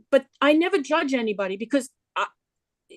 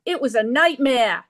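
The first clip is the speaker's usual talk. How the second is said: a light New York accent on nightmare. Shown as a demonstration. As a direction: say it like a New Yorker. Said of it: "I'll say that again with my New York accent".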